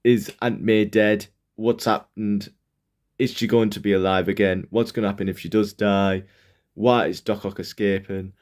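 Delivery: mock dramatic questions; dramatic teaser. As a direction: build suspense like a comic blurb.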